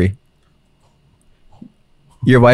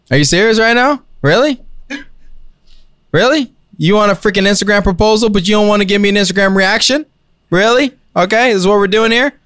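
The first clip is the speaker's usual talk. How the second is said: pitched higher, incredulous and offended; indignant outrage; 6 semitones higher than usual. Acted. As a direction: demand why she isn't moved, voice climbing higher. Acted outrage at unmoved fiancée.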